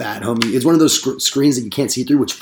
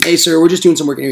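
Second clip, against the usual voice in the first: higher, louder, fast salesman greeting; polite pitch; 5 semitones higher, 5 dB louder, faster than usual. Retold or imitated. Salesman greeting a grumpy homeowner, cheery fast pitch. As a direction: rattle off the cheery sales opener. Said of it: "I was like".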